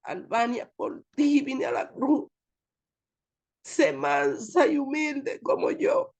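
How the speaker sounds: voice of God. Retold or imitated. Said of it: "el último nombre que él dijo fue el mío".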